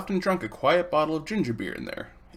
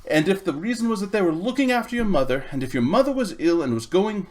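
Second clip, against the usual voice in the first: louder, strained, near tears; holding back tears; 5 semitones higher, 6 dB louder than usual. Acted. Boy tells Polly his mother may die, near tears. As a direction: fight the tears on the last words. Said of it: "trying to keep back your tears".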